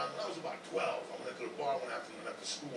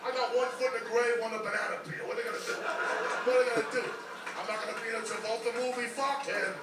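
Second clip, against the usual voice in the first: higher, louder defiant yell; defiant shouting rant; 7 semitones higher, 6 dB louder than usual. Real, not acted. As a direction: shout it out like you don't care.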